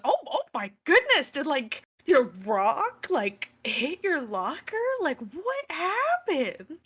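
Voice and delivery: high exclamation settling into slow questioning; wide-eyed, drawn-out surprise; surprised concern. Acted. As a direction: stretch the question out, rising high. Acts surprise at damaged locker.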